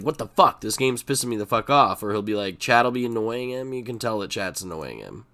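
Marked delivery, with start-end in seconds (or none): 0.0-2.0 loud, higher imitation of a gamer losing it; half-serious imitated rage; mock streamer rage. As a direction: act out the streamer blowing up at the game. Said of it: "he loses it where he's like".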